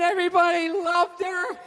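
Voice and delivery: ordinary talk, nothing marked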